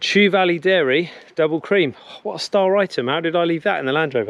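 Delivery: puffing, winded, still catching breath. Having just run back to the land rover, talking viewers through ingredients, out of breath. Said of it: "If I sound out of breath".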